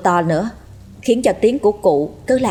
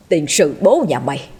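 gruff, impatient demand; irritated cursing; 2 semitones lower than usual. Acted. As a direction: snap back at the stammering maid. Master curses stammering maid on phone.

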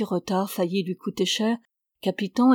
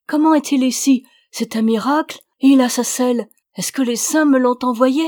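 higher, louder, overwhelmed with tears of joy; tearful joy; 5 semitones higher, 7 dB louder than usual. A narrator's reading. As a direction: cry out to the horse in happy tears. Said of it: "Ramona fondit en larmes". (retrouvailles émues, plus aiguës et plus fortes)

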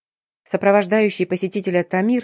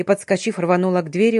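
ordinary delivery, nothing marked

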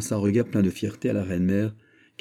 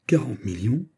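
exclaiming; 4 semitones higher than usual. Acted. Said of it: "s'écria la reine".

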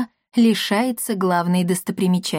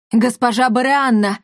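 louder glad call; delighted greeting; 3 semitones higher, 4 dB louder than usual. Acted. Paracelsus greeting Barianna, delighted. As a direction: greet her with joy. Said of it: "обрадовался Парацельс".

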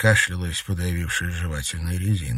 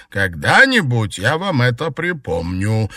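slow, louder and higher warning; grudging threat; 5 semitones higher, 6 dB louder, slower than usual. A narrator's reading. Maid warning her mistress, resentful.

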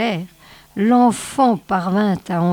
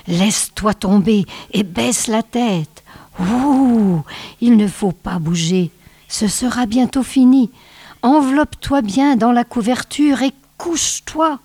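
calling out; 4 semitones higher than usual. Acted. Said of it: "lui cria à nouveau l'enfant".

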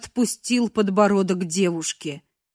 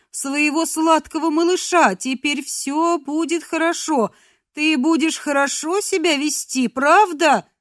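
put-on higher, cooing mother talking to baby; sweet mother voice; 6 semitones higher than usual. Captive girl pretending to be his mother, cooing. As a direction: coo like a doting mother.

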